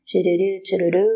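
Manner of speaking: low little "tiriri, tiruru" filler; sing-song doodling noise. Pretend. Teacher filling time as she pretends to write the essay, low sing-song. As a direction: mimic busy writing with low trills.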